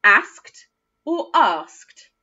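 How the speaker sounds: slow asked short then asked long ah; two ways of asked. Shown as a demonstration. Teacher asks children which way they say asked, slowly. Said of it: "which way do you say it".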